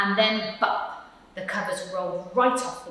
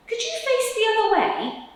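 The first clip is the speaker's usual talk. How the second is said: higher, louder polite request; Percy asking; 5 dB louder than usual. Acted. Percy asks squirrel to turn, higher and pleading. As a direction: ask it squeezed and a bit put-upon. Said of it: "Percy asked the squirrel".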